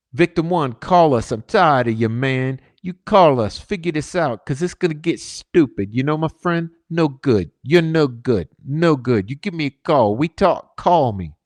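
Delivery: put-on reading the voicemail in a mild Italian accent. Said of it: "using an Italian accent".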